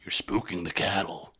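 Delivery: gruff, tough cowboy voice; Jack Palance. Retold or imitated. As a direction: growl it like a tough old-West cowboy. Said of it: "just, like, in a gruff, tough voice".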